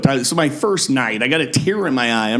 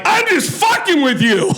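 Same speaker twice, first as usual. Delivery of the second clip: laughing tease. Retold or imitated. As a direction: laugh it out as a gotcha. Retold punchline with laugh.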